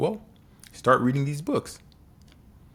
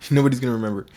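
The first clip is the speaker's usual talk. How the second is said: louder and fast, with a laugh; laughing repeat; 2 semitones higher, 5 dB louder, much faster than usual. Real, not acted. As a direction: laugh it out, rushing the words.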